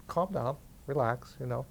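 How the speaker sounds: softly soothing, as retold; calming. Retold soothing of upset boy.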